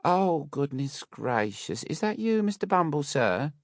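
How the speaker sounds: flustered Mrs Mann. A narrator's reading. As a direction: put on a gushing startled matron. Mrs Mann surprised at window.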